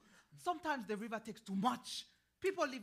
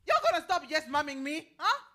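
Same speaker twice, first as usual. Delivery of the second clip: scolding; 6 semitones higher, 10 dB louder than usual. Acted. Old woman scolding the politician.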